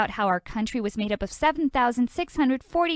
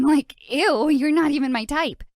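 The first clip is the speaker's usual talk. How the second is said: flustered denial; 3 semitones higher, 5 dB louder than usual. Acted.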